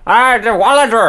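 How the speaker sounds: high, loud put-on Austrian accent; Austrian accent attempt. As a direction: say the name in a hammy Austrian accent. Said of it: "that was close enough".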